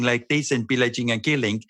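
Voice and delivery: lightly put-on Eastern European accent. Shown as a demonstration. Actor demonstrating Nandor's way of talking, Eastern European accent. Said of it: "because it's Eastern European".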